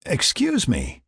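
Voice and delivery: high, polite apology; apologetic. A narrator's reading. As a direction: excuse yourself in a lifted voice. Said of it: "Tony apologized".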